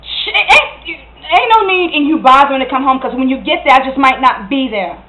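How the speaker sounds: heated, hurt ultimatum; angry accusation. Acted. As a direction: insist you know, then warn Darnell off. Acted quarrel, accusation and threat to leave.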